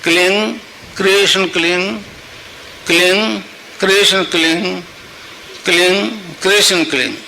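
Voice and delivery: measured phrases with pauses between; even, spaced-out japa; mantra recitation demo. Shown as a demonstration. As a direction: recite it for followers to repeat. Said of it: "उसको जपने के लिए".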